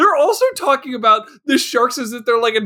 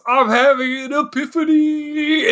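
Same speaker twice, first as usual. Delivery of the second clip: mock revelation; 4 semitones higher than usual. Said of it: "this guy goes".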